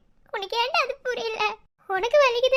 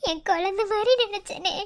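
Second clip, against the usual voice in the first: tearful lament; 3 semitones lower than usual. Acted. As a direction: hold back the tears, barely voiced. Repeats line, second more broken.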